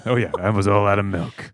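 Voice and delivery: hardboiled noir narration; brooding private eye voice-over; noir detective. Acted. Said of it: "It's noir".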